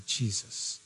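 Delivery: a private whispered call; whispered prayer. Shown as a demonstration. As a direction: whisper the name, breathy and soft. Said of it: "call Jesus into your heart and mind".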